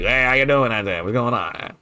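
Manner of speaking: put-on Lafayette accent. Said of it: "people out in Lafayette, they're like".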